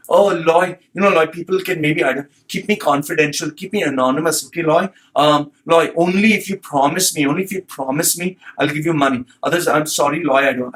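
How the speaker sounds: a hint of a lisping, pleading job seeker; mock effeminate voice. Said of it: "he sound like this guy, he sound gay".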